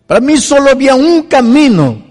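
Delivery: high, loud pleading cry climbing with each question; a converted drunk pleading with the pastor, high and loud; impassioned plea. Retold or imitated.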